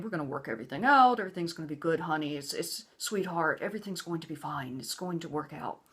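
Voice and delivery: lightly voiced placating husband; soothing husband. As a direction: imitate his syrupy reassurance. Husband's soothing promises, mocked.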